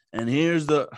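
imitating a congested broadcasting voice; a mild booming announcer call; radio broadcaster voice. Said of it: "with his radio voice".

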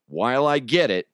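ordinary talk, nothing marked

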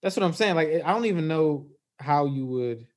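muffled, like through a wall; muffled audio. Real, not acted. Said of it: "Oh, you sound muffled".

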